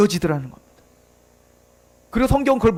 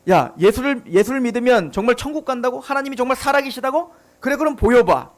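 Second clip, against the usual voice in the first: mocking skeptic. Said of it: "세상 사람들이 우리에게 요구하는 겁니다".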